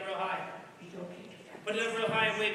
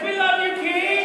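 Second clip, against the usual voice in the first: fawning crowd; 5 semitones higher, 6 dB louder than usual. Acted. Crowd voiced in Bible story.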